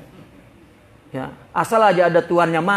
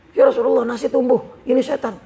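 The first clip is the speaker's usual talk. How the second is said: higher, louder panicked report; alarmed cry; 6 semitones higher, 4 dB louder than usual. Acted. Abu Bakar running to the Prophet about the growing rice, alarmed cry. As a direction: blurt it out in alarm.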